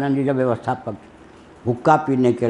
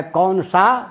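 कौन सा raised in pitch, सा held; सा set apart; 5 semitones higher, much slower than usual. Retold or imitated. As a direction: lift कौन सा and stop after सा. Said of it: "कौन सा कानून कहता है".

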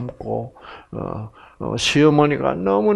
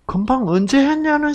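high, breezy mock innocence; imitating a husband's innocent act; mock innocent denial; 14 semitones higher than usual. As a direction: play the husband acting like nothing happened.

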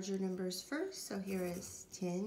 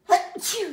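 sneezing; 11 semitones higher, 18 dB louder than usual. Real, not acted. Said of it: "bad allergies this morning".

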